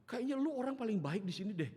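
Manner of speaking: high, loud mock Betawi voice; Betawi old woman. Oma praises the pastor as kindest neighbour, high blunt Betawi voice. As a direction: imitate a blunt Betawi granny. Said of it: "Jadi ngomong kayak gitu".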